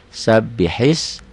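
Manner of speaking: slow Sabbihis, gliding into the next word; slow recitation. Shown as a demonstration. Teacher links to the next word, slow. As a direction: chant Sabbihis slowly. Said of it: "Masuk dari his ke".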